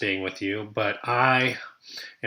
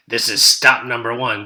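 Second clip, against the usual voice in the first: hissing Grinch; 7 dB louder than usual. Acted. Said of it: "the old Grinchy Claus hissed".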